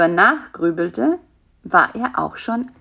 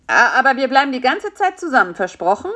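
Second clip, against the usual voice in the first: shaky voice; 6 semitones higher, 4 dB louder, faster than usual. A narrator's reading. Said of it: "mit zittriger Stimme".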